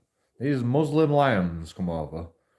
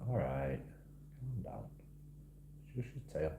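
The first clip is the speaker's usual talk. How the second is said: hushing the cat; 6 semitones lower, 19 dB quieter than usual. Real, not acted. Soothing a growling cat.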